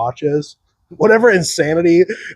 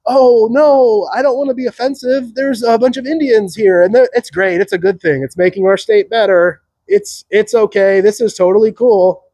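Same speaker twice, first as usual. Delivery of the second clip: high, anxious, people-pleasing voice, much higher; mock nervous appeaser; 6 semitones higher than usual. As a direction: sound scared of offending anyone. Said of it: "it's the opposite. It's like".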